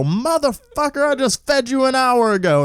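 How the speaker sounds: high, exasperated retold rant; mock outrage. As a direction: scold the cat in high-pitched indignation. Retold outburst at demanding cat.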